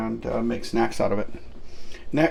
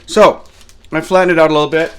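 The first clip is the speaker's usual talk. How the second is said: loud, fast, higher Viking boom; 5 semitones higher, 13 dB louder than usual. Acted. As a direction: announce it like a Viking. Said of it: "So I'm going to go with this one".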